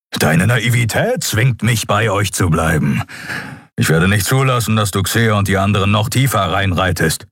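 stern, disapproving retort; grudging Keru. Acted. Keru scolding the captain for naivety, grudging. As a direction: grumble why you must stay.

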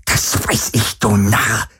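hissed, spitting with contempt; spitting rage. Acted. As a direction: spit the words at the fool. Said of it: "Speichel flog zusammen mit Varidors Worten". (wütend gezischt, voller Verachtung)

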